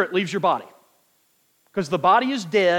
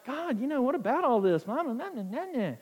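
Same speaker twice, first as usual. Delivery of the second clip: soft, worn-out plea to God; sighing it out like a man who's given up; despairing prayer; 5 semitones higher, 8 dB quieter than usual. Retold or imitated. Preacher retelling his struggle to God, soft and defeated. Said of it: "And I'm like".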